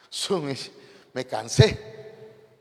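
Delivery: acted winded panting; cansado, sin aliento. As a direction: drag out the words as if worn out from walking. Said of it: "caminó y dice". (agotado y jadeando, fingido)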